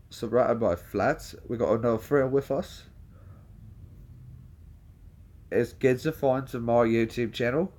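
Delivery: imitated British vlogger accent; put-on British accent, trying to match the original; Brad. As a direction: echo a British vlogger's lines. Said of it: "I'm gonna try to match my voice to his".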